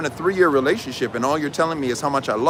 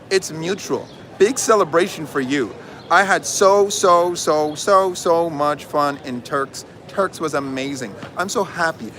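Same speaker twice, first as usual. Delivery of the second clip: put-on gushing girlfriend voice note; 3 semitones higher than usual. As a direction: read her voice note like a smitten girl, with mock giggles. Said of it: "The voice note says".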